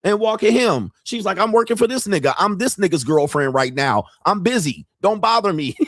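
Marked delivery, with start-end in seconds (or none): 1.4-5.8 put-on dismissive, higher girl voice, laughing at the end; mock busy stripper. Stripper shooing off an old client while she's on the clock. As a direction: brush him off like he's a nuisance.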